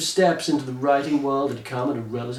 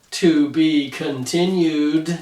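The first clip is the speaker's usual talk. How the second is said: dramatic pause; much slower than usual. Acted. Dramatic ending line of story.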